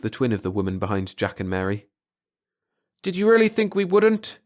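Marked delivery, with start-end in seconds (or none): 3.0-4.4 high, loud, venomous retort; spitting with passion. A narrator's reading. Sister spitting her hatred back at her brother. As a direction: spit the words back at him. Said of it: "in a voice that spat with passion".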